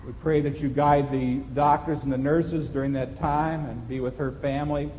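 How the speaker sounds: low, measured public prayer. Real, not acted. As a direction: lead the congregation in prayer, pausing between phrases. Leads a closing prayer.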